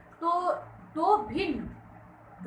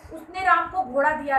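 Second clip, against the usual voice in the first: Ram leaned on, louder than उसने; stress on Ram; 4 dB louder than usual. Shown as a demonstration. Teacher explaining who got the horse, stress on Ram. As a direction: make Ram the point of the sentence. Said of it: "Ram को दिया".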